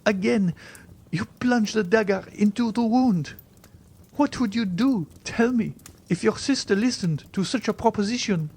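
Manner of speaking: put-on high-pitched, wounded young woman; distressed heroine, very high voice; despairing Valentine. A narrator's reading. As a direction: cry out the reproach, high.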